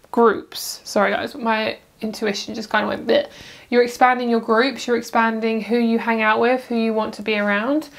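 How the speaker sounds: ordinary talk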